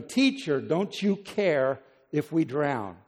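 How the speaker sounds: desperate appeal, only half yelled; mild acted yell. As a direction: call out to wake the teacher, slowly stressed. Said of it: "You'd yell at him too".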